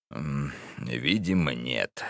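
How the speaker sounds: low, quiet, unbothered; unruffled old man. Acted. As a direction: shrug it off quietly. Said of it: "старик невозмутимо продолжал".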